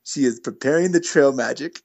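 imitated German accent, deliberate phrasing; lightly put-on German accent; thick German accent. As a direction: mimic a German hiker's accent. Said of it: "in his thick German accent".

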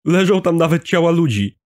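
high, loud, breathless alarm; frightened running report. A narrator's reading. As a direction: blurt it out scared while running. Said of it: "dodał biegnący jako drugi". (przestraszony okrzyk w biegu)

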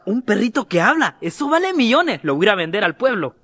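put-on low voice of a seventy-year-old; lightly voiced old man. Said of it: "un señor de setenta años".

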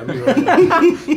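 high, slow, laughing through it. Real, not acted. Friend repeats his crude joke, laughing. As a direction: giggle the words out slowly.

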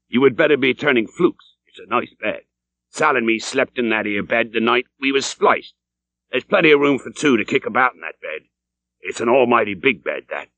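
a lightly voiced old landlord, sly and chummy.

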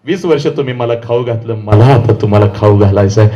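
low, softened, sincere voice; hushed heartfelt promise; tender daughter's promise. Retold or imitated. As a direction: speak gently to a father, pitched well down. Daughter tenderly addressing father, retold.

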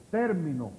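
TÉR-mi-no, weight up front; accent the first syllable of "término"; "término" falling from its stressed start. Shown as a demonstration. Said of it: "Esdrújula".

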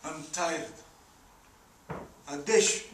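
quiet, low, worn-out voice; weary confession. Acted. Landlord admits to Paul his money burden, tired and low. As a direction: let the weight of it out softly.

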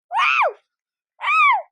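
very high thrilled wow; excited wow. Real, not acted. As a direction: squeal out in amazement. Excited exclamation.

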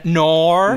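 "nor" as a drawn-out Aussie no; Australian-style "no". Shown as a demonstration. Host demonstrating TikTok trend, "nor" for Australian no. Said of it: "people are using the Australian accent".

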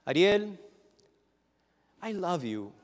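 a mock young lady; imitating girlfriend. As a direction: play the ex sweetly explaining. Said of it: "this young lady that would tell me".

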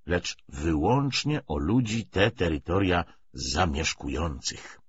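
measured lecture with emphatic surges; lightly voiced party orator. Commissar justifies the treaty to comrades, mildly oratorical. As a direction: argue the policy point by point.

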